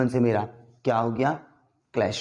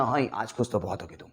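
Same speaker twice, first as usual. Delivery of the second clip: low, deep filmy baritone, softer; Amitabh Bachchan impression; 3 semitones lower, 7 dB quieter than usual. Teacher imitating a film star for students, lightly deep and soft. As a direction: drop into a brooding film-hero voice. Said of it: "तो ऐसे नकल उतारते हैं ना".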